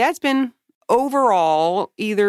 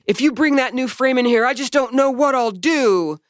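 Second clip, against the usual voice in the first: high, wailing plea, half-acted; mock crying plea; 6 semitones higher than usual. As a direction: whine it like a begging, tearful old dad. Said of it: "started his whole crying and begging".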